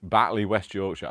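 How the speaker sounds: loud, put-on Yorkshire accent. Telling viewers she's in Batley, Yorkshire accent. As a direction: hit it loud in broad Yorkshire. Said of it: "I don't know why I have to say it with a Wa-, Yorkshire accent".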